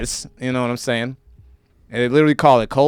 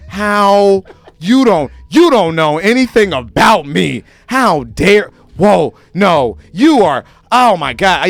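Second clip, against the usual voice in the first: mock outraged white person; slower than usual. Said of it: "They're like".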